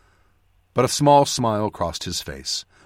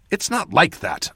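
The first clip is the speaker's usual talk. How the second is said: higher-pitched mild protest; 6 semitones higher than usual. A narrator's reading. Mage defends himself against Cadal's jibe, protesting. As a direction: object with raised pitch. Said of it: "I protested".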